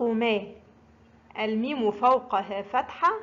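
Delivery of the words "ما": slow model syllable ما; ما with fatha. Shown as a demonstration. Teacher showing learners mim with fatha, ما sounded out slowly. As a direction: draw out ما slowly, m plus fronted a. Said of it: "ينطق".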